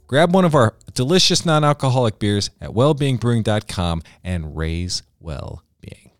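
upbeat sponsor read, slowing at the end. Acted. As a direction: sell it like a radio spot. Reads a sponsor ad.

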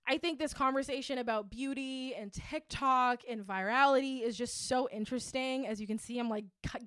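breathless from talking fast; out of breath, pushing the words out. Real, not acted. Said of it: "getting out of breath talking about it".

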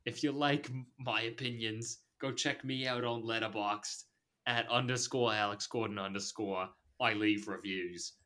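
light put-on Australian plug; Australian accent. Host plugging social accounts, in a put-on Australian accent. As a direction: read the socials in playful Australian. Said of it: "That's Australian".

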